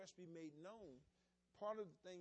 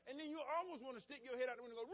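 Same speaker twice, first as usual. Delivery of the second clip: exasperated drive-thru driver; 6 semitones higher, 6 dB louder, faster than usual. Retold or imitated. Driver stuck behind an undecided customer, exasperated. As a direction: huff at the car ahead, then blurt it out.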